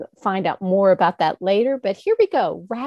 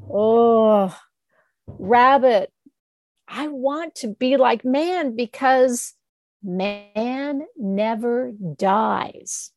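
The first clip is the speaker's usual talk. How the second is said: sad moon; 2 semitones higher, slower than usual. Acted.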